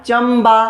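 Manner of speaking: चंबा slowly, with a held m before बा; teacher sounding out चंबा by syllable; M sound brought out. Shown as a demonstration. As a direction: stretch the m in चंबा. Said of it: "एम आ रहा है ना".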